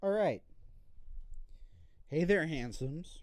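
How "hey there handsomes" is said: low, slow spooky greeting; a creepy low come-on. Acted. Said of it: "in a spooky voice".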